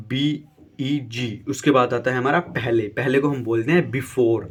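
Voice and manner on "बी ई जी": slow spelling. Shown as a demonstration. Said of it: "teacher spells out word".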